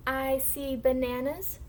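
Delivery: slow model reading. Shown as a demonstration. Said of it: "I'm gonna read the sentence first".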